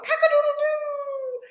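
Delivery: high, loud cock-a-doodle-doo; rooster crow. A narrator's reading. Fowl flustered by the sneeze, high crowing. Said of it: "who crowed".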